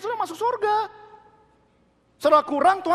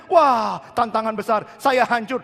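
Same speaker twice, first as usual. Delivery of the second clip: louder alarmed cry of defeat; mock panic; 2 semitones lower, 5 dB louder, slower than usual. Preacher acting a panicked believer, loud mock alarm. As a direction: blurt it out like someone overwhelmed. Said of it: "meresponinya dengan".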